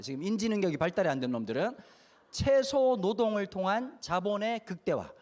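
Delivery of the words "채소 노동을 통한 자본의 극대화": put-on slow, each word laid out for kids; slow spelled-out phrase. Shown as a demonstration. Speaker repeating the phrase slowly for children. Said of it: "다시".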